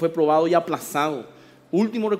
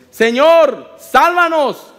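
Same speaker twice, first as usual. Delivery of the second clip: panicked plea; 6 semitones higher, 9 dB louder, much slower than usual. Acted. Disciples waking Jesus in the storm.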